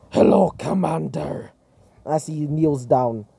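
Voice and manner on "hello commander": put-on robot greeting; robot character voice. Robot kneels to greet his commander, put-on character voice. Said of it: "As he says".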